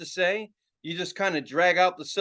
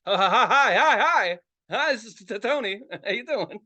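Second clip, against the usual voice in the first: mock stutter on the phone; 2 semitones higher, 3 dB louder than usual. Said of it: "now I have a fucking stutter".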